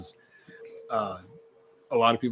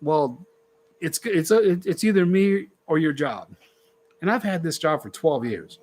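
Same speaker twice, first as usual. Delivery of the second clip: imitating his wife; 6 semitones higher than usual. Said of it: "and she's like".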